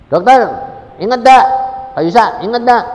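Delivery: loud, high eager calling out; loud happy reunion voice; excited greeting. Retold or imitated. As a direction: call out gladly to an old friend. Mother greeting doctor years later.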